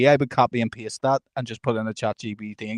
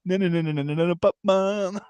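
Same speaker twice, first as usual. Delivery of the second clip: lightly sung-out no no no Batman; mock Batman sign-off; 5 semitones higher than usual. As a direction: chant the nos then drop into Batman. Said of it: "at the end it goes".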